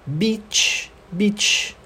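"Beach" ending in a crisp tch; isolated "beach" with long ee and released tch. Shown as a demonstration. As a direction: model "beach" twice, softly, each ending in tch. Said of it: "tem som de tch".

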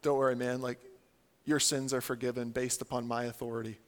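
low, quiet, offhand reassurance; hushed, laid-back mock authority; casual absolver. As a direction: lightly play a guy granting forgiveness. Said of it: "somebody just says to you".

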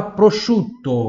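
a teacher sounding out prosciutto syllable by syllable; slow model word. Shown as a demonstration. Teacher models prosciutto slowly for her class, clear and drawn out. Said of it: "Próxima palavra".

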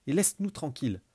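loud threatening snap; menacing. Acted. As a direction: warn him off. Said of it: "cracha Raziel menaçante".

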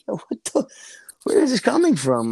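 retold disbelief. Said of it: "I'm like".

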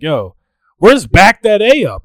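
loud, high mock shout; dad calling out. Bride's dad calls to the DJ for a song, calling out. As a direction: holler a request like a party dad.

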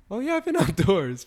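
mock-proud chuckle through Oh yeah, I've been outdoors; laughing self-quote. Guy laughing at his own luxury trips, mock-proud. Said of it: "I'm like".

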